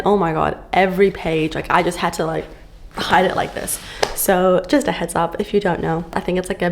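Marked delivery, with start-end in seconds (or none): 2.9-3.8 hushed whisper. Pretend. Hiding spicy book in public.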